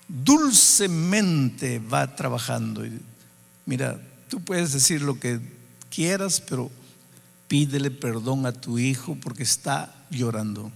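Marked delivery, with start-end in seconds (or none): 3.7-10.7 voz suave del espíritu. Retold or imitated. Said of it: "sentí una voz aquí en mi corazón".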